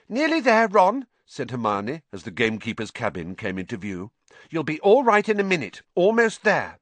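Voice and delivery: put-on high, encouraging girl voice. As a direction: urge him on, brightly. Hermione voiced in narration.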